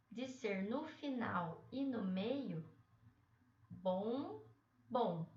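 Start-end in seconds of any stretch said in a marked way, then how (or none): 3.7-5.3 "bom" said with a held nasal ending. Shown as a demonstration. Teacher sounding out bombom syllables for students, nasal. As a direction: sound out "bom" slowly for the class. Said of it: "é o mesmo som".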